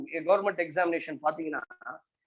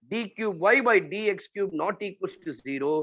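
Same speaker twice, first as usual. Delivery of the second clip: slow dictation; much slower than usual. Shown as a demonstration. Dictating a rule.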